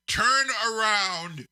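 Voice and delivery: called out. Retold or imitated. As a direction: drag out the order like a triumphant boss. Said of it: "and he says".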